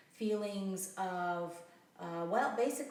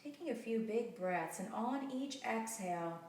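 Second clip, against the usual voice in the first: calm meditation guide with long pauses; unhurried, settling guided-relaxation delivery. Real, not acted. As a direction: ease them down gently, leaving space between phrases.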